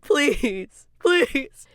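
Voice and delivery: high, loud, giddy pleading; squealing please, please; excited begging. Real, not acted. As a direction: beg like a fan who needs this to happen. Begging for her fan idea.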